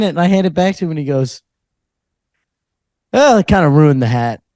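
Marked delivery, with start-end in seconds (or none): 3.1-4.4 mildly let-down fan; a touch of genuine disappointment, quoting someone; imitated disappointment. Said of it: "Like, kinda genuinely disappointed".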